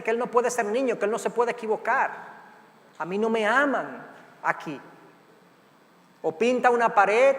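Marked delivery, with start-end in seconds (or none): 3.0-4.8 put-on hurt child. Scolded child feels unloved.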